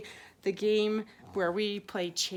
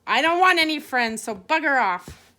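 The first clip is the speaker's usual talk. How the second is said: louder, irritated dismissal; gruff rejection; 3 semitones higher, 6 dB louder than usual. Acted. Big dog rejecting the pug's friendship, irritated. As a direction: push the pest away firmly. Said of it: "The big sa-, dog said".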